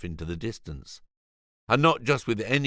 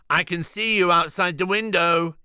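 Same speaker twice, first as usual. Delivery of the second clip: much higher, louder yell; 10 semitones higher, 5 dB louder than usual. Acted. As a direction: shout at the men outside. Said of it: "yelled Julian".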